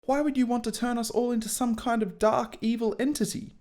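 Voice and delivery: put-on high, shocked boyish voice; aghast Harry. Harry, aghast, questions Snape in a high voice. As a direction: sound stunned like a young boy.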